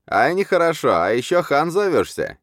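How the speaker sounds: very high, shrieky accusation; spiteful yelling. A narrator's reading. Grudge-bearing wild man heckling the khan, yelling. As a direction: yell it as a heckler. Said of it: "орал злопамятный Мастур Батыр".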